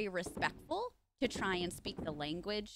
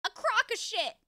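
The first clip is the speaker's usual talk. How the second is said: mock high voice; 11 semitones higher, 5 dB louder than usual. Repeated phrase high.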